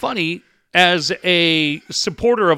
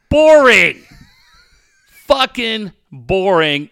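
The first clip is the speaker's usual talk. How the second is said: mocking boredom; 4 semitones higher, 6 dB louder, much slower than usual. Mocking a dull pool.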